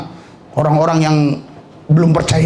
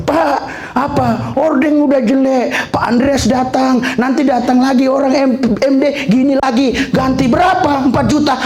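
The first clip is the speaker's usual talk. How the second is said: pastor's wife on phone; 4 semitones higher than usual. Retold or imitated. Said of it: "Ibu gembala kemarin telepon".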